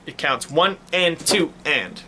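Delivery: one and two and, slow and even; slow counting. Shown as a demonstration. Teacher shows how four eighth notes are counted, slowly. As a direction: spell out each eighth note slowly. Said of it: "when you see four eighth notes".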